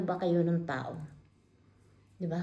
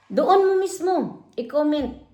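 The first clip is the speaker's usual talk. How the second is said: sharply raised, louder dare; 5 semitones higher, 4 dB louder than usual. Real, not acted. A vlogger daring his heckler to comment, loud and sharp. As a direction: throw the dare right at him.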